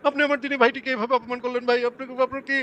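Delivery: high put-on voice of a wounded believer; mock him in a whiny high pitch. Mocking a pious opponent.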